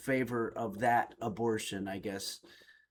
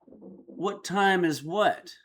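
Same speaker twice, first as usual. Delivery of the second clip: playing dumb; 4 semitones higher, much slower than usual. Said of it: "I'd say".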